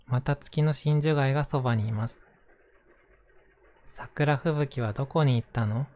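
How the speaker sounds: gentle picture book reading; reading to children. Acted. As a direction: read it like a bedtime story. Reads a picture book aloud.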